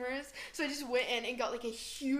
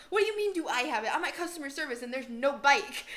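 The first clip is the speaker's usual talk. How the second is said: exasperated outburst; 3 semitones higher, 6 dB louder than usual. Retold or imitated. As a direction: throw the question back, annoyed and loud. Quoting herself at customer service.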